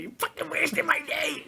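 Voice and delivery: high-pitched mock wail; retold complaint. Complaining about a wasted hospital trip, high mock wail.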